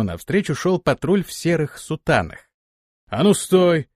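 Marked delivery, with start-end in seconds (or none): 3.1-3.9 sharp loud halt order; command. Acted. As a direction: order him to stop. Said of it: "скомандовал один из них".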